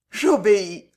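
gasped, anguished surrender; defeated, pained reply; agonised murmur. A narrator's reading. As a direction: give in as with a dying breath. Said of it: "dans un souffle d'agonie, murmura".

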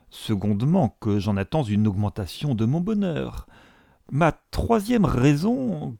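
lightly voiced self-important clergyman; pompous suitor. Suitor declaring himself to Elizabeth, lightly pompous. Collins lists his reasons to marry.

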